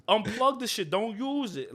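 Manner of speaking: retold urgent order. Telling a friend to unplug the loose outlet, retold urgent order.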